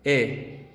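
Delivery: rounded E sound "E"; E marcada. Shown as a demonstration. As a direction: say "E" with lips rounded. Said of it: "simplemente decimos la E marcada".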